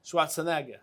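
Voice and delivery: Schwarzenegger with a German-style ending; German accent. Shown as a demonstration. Correcting himself after the accent joke, German-accented name.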